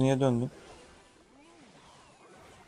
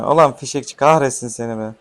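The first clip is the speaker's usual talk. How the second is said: louder, fed-up cursing; annoyed cursing; 6 dB louder than usual. Real, not acted. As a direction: curse the card out loud. Cursing an enemy card.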